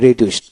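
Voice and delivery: রিডিউসড ending in a "t" sound, "ri-dust". Shown as a demonstration. Teacher showing learners the past form: রিডিউসড ending in "t". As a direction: turn the final ড of রিডিউসড into ট. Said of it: "দিতে ট উচ্চারিত হবে".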